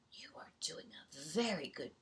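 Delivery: hushed admiring whisper; whispered praise. Acted. Seahorse praising Curtis, whispered in awe.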